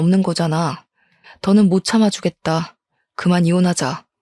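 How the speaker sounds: ordinary delivery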